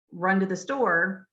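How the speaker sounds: each word said separately, slowly. Shown as a demonstration. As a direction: read it word by word like a beginner. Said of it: "they're saying each word".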